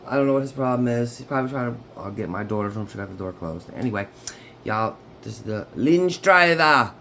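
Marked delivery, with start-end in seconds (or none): 4.6-6.9 sing-song channel greeting, drawn out; signature sign-on voice. Real, not acted. Greeting her tarot viewers in her signature sign-on voice. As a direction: announce yourself like a catchphrase. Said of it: "I don't know why I always say it like that".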